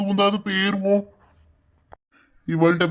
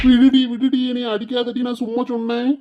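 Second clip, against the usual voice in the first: panicked pleading; 3 semitones higher than usual. Acted. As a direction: beg to be let off a beating. Husband begs wife to stop hitting. (கெஞ்சி அலறல்)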